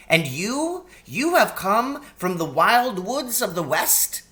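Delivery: a polite, flustered faun covering a slip; high eager faun babbling; excitable faun. Acted. Faun character voice.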